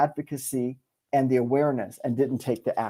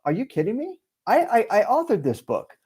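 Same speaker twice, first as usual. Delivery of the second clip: higher, excited disbelief; thrilled higher voice of self-belief; self-advocacy; 7 semitones higher than usual. Retold or imitated. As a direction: lift the voice in proud amazement. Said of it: "My advocacy was".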